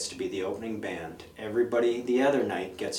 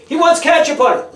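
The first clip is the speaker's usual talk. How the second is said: much higher, screamed loud; mock shouted report; 14 dB louder than usual. Sibling yelling to mom that he wants ketchup, screamed high. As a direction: scream it like telling the whole house.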